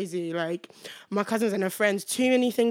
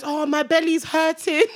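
higher, drawn-out mock moan; feigned bellyache; 6 semitones higher than usual. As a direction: put on a slow complaint of pain. Acted feigned stomach ache to friends.

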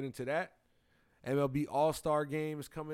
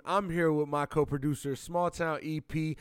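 intro voice; 2 semitones higher, 5 dB louder than usual. Acted. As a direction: present the co-host with big energy. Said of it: "I'm using my intro voice".

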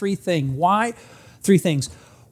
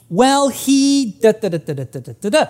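mock complaining wife; 3 semitones higher than usual. Wife's complaints mocked as da da.

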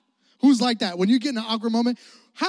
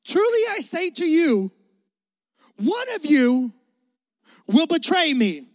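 a light solemn Jesus voice, louder; Jesus speaking; 3 semitones higher, 4 dB louder than usual. Acted. Pastor voicing Jesus to the congregation, lightly solemn. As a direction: deliver Jesus' words with gravity. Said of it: "Jesus is about to say something".

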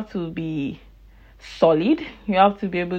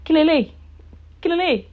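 high wailing Kilele, kilele; mother's shocked wail; mom wailing; 9 semitones higher, faster than usual. Retold or imitated. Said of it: "my mom is just like".

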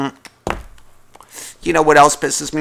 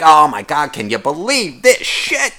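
mock coworker. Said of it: "You know, like".

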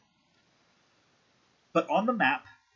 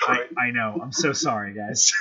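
trying not to laugh; 4 dB louder than usual. Real, not acted. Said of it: "I'm trying to be serious".

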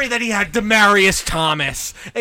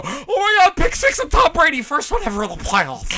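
mock excited; 7 semitones higher than usual. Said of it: "you watching you go".

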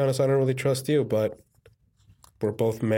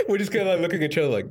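giddy high narration; excited; 8 semitones higher than usual. Real, not acted. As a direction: gush about the scene. Laughing at imagined scene.

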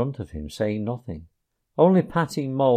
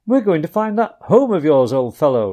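pleasant reply; 5 semitones higher, 7 dB louder than usual. A narrator's reading. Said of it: "replied the rat pleasantly".

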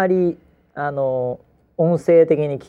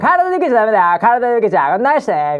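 impression of the boxer's father; 3 semitones higher, 4 dB louder than usual. Father coaching his boxer son between rounds, impression. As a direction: coach your son between rounds, calm but firm. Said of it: "これ、お父さん。これ、非常に似てます".

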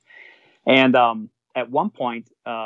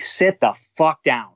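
retold stern command; 3 semitones higher, slower than usual. Captain finally stands up to George.

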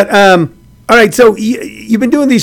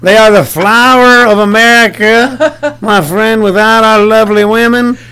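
mock-grand praise; 4 semitones higher than usual. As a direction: gush with exaggerated reverence, drawing out the words.

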